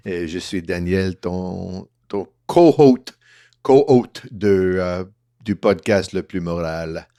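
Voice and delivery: put-on Quebecois accent. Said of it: "Trying to do my Quebecois accent in honor of our guest".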